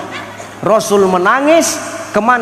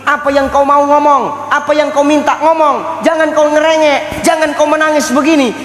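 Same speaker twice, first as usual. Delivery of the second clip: voice of God; 7 semitones higher than usual. Acted. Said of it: "apa kata Allah?".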